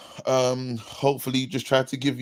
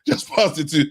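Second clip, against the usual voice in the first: louder game-commentator call; mock FIFA commentary; 4 dB louder than usual. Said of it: "imagine on fifa".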